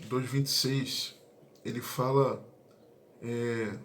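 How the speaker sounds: speaking through a yawn; slowed, yawning reading of the verse. Real, not acted. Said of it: "perdão pelo bocejo".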